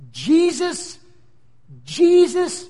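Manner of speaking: high, loud stunned repetition; shocked disbelief. Acted. Paul the Pharisee hearing the name, high and stunned.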